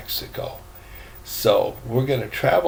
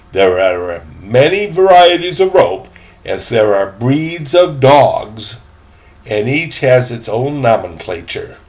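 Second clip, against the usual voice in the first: put-on a fussy, louder old gentleman's voice; proper old gentleman; 7 dB louder than usual. Gentleman asking the boy about his cabin, fussy and formal. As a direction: sound like a prim elderly traveller. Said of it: "said the elderly gentleman".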